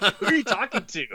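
a hint of a puzzled grandma; baffled grandma.

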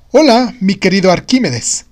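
whispered mocking greeting. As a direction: tease him in a sly whisper. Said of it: "saludó con sorna".

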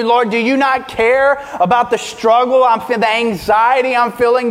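pleading, pained and pressing; desperate plea. Acted. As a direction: cry out to the Lord in desperation. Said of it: "do you hear just the desperation in her voice".

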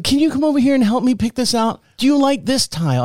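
high, polite pleading imitation; begging for attention. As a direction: mimic a wife begging nicely to be noticed. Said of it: "begging for his attention".

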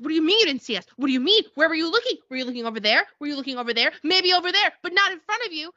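indignant volley of accusing questions; flipping out. Retold or imitated. Mom flipping out on the driver, indignant. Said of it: "she starts flipping out on the guy".

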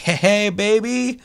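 high, slow sing-song come-on; cooing pickup line. Retold or imitated. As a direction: tease it like a flirty catcall. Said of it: "people see me and they're like".

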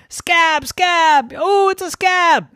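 loud, squeaky accusing chant; high angry stuffies. Acted. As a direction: toys jeering at a strikebreaker. Peluches accusent un briseur de grève.

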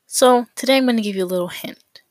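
a loud stage whisper. Acted. Teacher sharing a secret hint with viewers, loud stage whisper.

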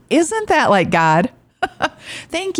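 slow, amazed words through a real laugh. Real, not acted. Mother telling listeners about her answered prayer, laughing. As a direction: savor it, chuckling in wonder.

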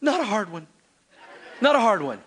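put-on very high, loud child begging; panicked kid. Son begging before a spanking, very high pleading. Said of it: "he'd stop and go".

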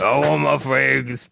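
drawn-out mock English accent; lightly voiced English lady, mildly cross. Agreeing with her fellow club lady, exaggerated English accent. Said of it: "subdued English lady".

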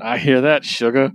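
put-on mild Southern accent. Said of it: "Rogue very much with the Southern accent".

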